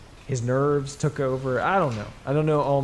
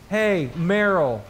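calling out; 4 semitones higher, 5 dB louder, much slower than usual. Retold or imitated. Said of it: "turns around and goes".

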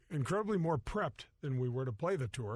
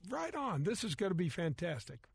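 thrilled; 2 semitones higher than usual. Retold or imitated. Excited to caddy for star.

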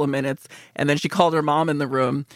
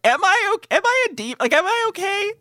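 mock self-doubt. Questioning herself aloud.

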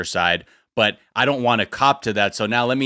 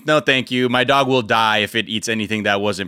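mock polite. Turning down a stranger's treat for his dog, mock politeness. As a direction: sweetly decline with a hint of mockery. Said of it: "Or I would politely be like".

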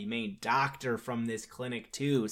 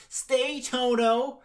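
high, louder call to a dog; hammed-up plea, pitched way up; mock calling out; 11 semitones higher, 6 dB louder, much slower than usual. Imitating Dorothy ordering Toto to stay, high mock call.

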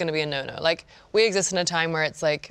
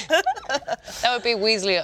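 sexy voice; 4 semitones higher, much slower than usual. Pretend. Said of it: "That's my sexy voice".

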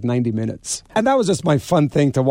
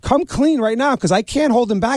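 high, urgent retold plea; alarmed pleading; 9 semitones higher than usual. Holding Bobby back after the ice pick, alarmed high plea. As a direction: beg him to stop, voice climbing. Urging thief to confess.

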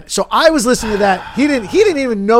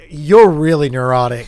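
put-on Jewish accent; 5 semitones lower than usual. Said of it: "You have the Jewish accent down too".

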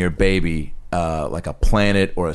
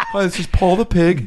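laughing; 10 semitones higher than usual. Real, not acted. Laughing at pig name.

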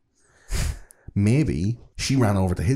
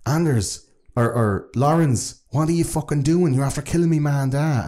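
daughter's voice; 7 semitones higher than usual. Retold or imitated. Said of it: "the daughter comes out and she's like".

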